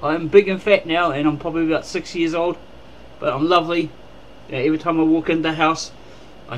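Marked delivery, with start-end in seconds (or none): 0.0-3.9 lightly voiced pet talk, starting high; playful, lightly put-on cat's voice; speaking for Bob the cat. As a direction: speak up for the cat, a little higher. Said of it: "Say hello, Bob".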